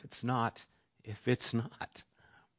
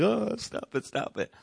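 mock squirming kid; 12 semitones higher than usual. Kids squirming in a hug.

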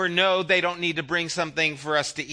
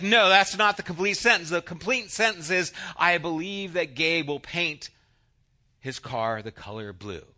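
mildly upset teacher. Retold or imitated. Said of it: "the teacher would get upset".

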